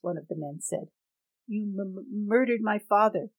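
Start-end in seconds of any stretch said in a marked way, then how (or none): 1.5-3.3 stuttering, then loud on murdered; stammering accusation. Acted. Young man accusing Tanchi of his father's death, stammering and loud. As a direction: choke on the word, then hurl it out.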